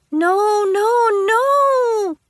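high, loud panicked protest; rising panicked cry; horrified no. Acted. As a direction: yell to stop him. Horrified at dad proposing.

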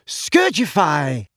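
slow, drawn-out incantation; spell casting. A narrator's reading. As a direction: cast the spell with flourish.

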